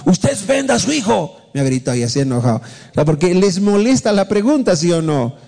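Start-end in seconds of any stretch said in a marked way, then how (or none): 0.1-1.4 imitated angry yell. Pastor retells a churchgoer shouting from behind, imitated angry yell. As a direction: imitate an indignant heckler yelling from the back. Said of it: "me gritó un hermano".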